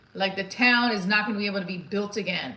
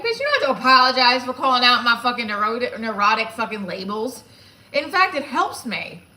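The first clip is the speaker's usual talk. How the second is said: mock indignant outburst; 3 semitones higher, 6 dB louder than usual. Laughing back at blunt therapist.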